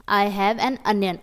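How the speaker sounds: "onion" said with a short a sound, anion. Shown as a demonstration. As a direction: say "onion" starting with a, not o. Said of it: "ओनियन नहीं होता, अनियन होता है". ("onion" को अनियन बोलना)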